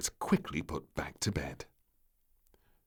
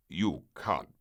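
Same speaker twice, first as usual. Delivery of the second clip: surprised; 4 semitones lower, 4 dB louder than usual. Acted. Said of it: "he asked with surprise".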